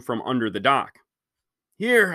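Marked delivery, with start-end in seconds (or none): 1.8-2.1 calling out. Acted. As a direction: call out high. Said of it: "I called out".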